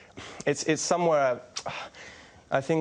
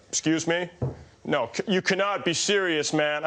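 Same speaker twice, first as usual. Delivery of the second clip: "You cannot be serious" done as a higher McEnroe outburst; mock McEnroe protest, pitched up; McEnroe outburst impression; 5 semitones higher than usual. Impersonator doing McEnroe to his face, raised indignant protest. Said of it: "came out with a".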